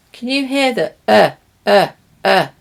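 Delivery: a short relaxed "uh"; schwa demo. Shown as a demonstration. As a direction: say "uh" the neutral schwa vowel. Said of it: "It's the schwa".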